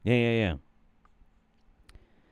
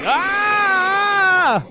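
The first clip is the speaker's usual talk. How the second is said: sudden shout; 9 dB louder than usual. Real, not acted. Sudden yell at clip.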